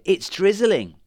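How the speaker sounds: high, loud and thrilled; delighted witch voice. Acted. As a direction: squeal it with delight. Witch sees spell working.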